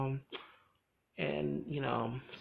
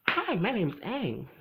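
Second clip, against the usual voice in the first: higher, louder, slow friendly hello; cheerful greeting; 7 semitones higher, 5 dB louder, slower than usual. Retold or imitated. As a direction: greet them brightly, stretched out slowly. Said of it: "he comes out and he's like".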